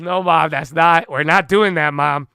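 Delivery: firm retold protest. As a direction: lay down the law to mom, mildly mocked. Arguing with mom, retold.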